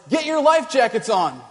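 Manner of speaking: mock yell from a passing canoe; half-shouted warning across the water; retold yell. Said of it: "They yell at us".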